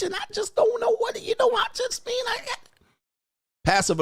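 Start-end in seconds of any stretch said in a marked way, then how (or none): 0.0-2.4 very high falsetto, pushing up to a strained cry; mock the evasive man in falsetto; high-pitched voice. Shown as a demonstration. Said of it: "do the high pitch".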